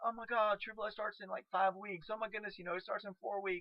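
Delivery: high, excited, thrilled gushing. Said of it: "everybody's, like, going".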